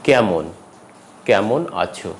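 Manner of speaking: কেমন clearly with open "ae"; clear open vowel. Shown as a demonstration. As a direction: say কেমন as "kaemon". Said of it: "আবারও বলছি স্পষ্টভাবে".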